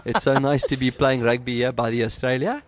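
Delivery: put-on South African rugby accent; playful South African rugby player accent. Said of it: "I'm going to switch to my rugby accent".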